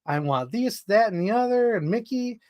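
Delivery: high-pitched gushing fan voice; high excited friend. Retold or imitated. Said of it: "And she's like".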